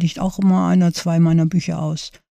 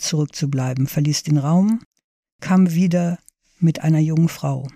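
measured reading of a short story; story narration. A narrator's reading. Author reads her short story to library listeners, measured narration. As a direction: read it aloud with lightly voiced dialogue.

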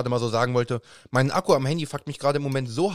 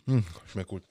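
talking while chewing; words round a bite of food; mouth full; 6 semitones lower, 7 dB quieter than usual. Real, not acted. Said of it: "Ich esse grad Burger King Pommes".

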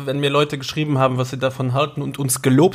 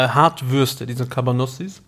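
chewing while talking. Real, not acted. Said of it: "ich esse gerade einen".

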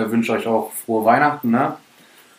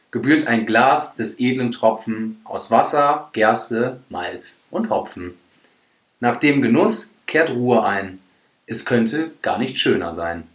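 poem recitation. Acted. Reads a rhyming poem.

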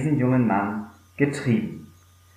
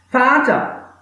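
pleading son; 11 semitones higher, 3 dB louder than usual. Acted. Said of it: "sagte der Sohn".

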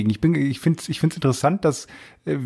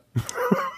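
squeaky high laugh; 8 dB quieter than usual. Real, not acted. Laugh at joke.

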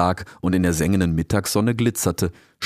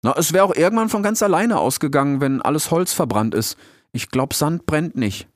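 put-on higher, hesitant young fox; a shy young fox offering an idea; unsure, higher-pitched fox cub; 8 semitones higher than usual. Fox Rix voiced.

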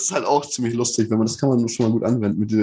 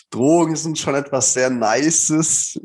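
quoting a rapper slowly; much slower than usual. Retold or imitated. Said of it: "das Original ist von einem Rapper und da heißt es".

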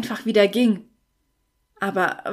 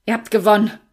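forced out, a little louder; blurted out; 6 dB louder, faster than usual. Acted. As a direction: spit out the surrender through resistance. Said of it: "stieß er hervor".

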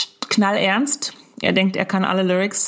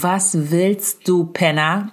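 slow, drawn-out challenge; contained anger; much slower than usual. Retold or imitated. Mother silently cursing an aggressive driver, contained anger. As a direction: stretch the words into a menacing insult. Inner insult at other driver.

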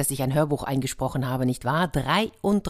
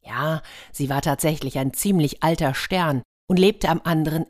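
lively storyteller reading a fairy tale; playful storyteller; story narration. A narrator's reading. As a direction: tell it like a bedtime story to children. Fairy tale read aloud.

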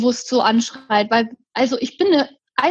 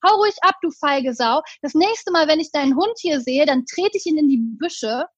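mild mock yell; 2 semitones higher than usual. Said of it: "schreit der Typ mich an".

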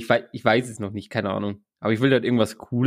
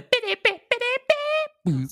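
mock begging; slower than usual. Begging co-host to answer.

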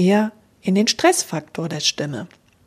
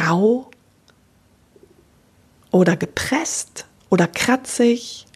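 rough pressed voice demo; 4 semitones higher than usual. Shown as a demonstration. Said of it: "Vielleicht klingt die auch nicht klar".

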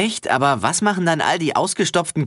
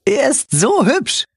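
swooning cute voice; 10 semitones higher, 4 dB louder, slower than usual. Acted. Swooning over the bunny.

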